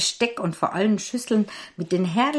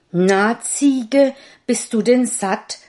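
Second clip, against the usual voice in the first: father asking; 6 semitones higher, 7 dB louder, slower than usual. A narrator's reading. Father asks goat.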